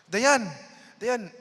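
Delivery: loud, high call across the room. Retold or imitated. Calling his friend Dayan on the phone, loud and high. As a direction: shout her name to get her attention.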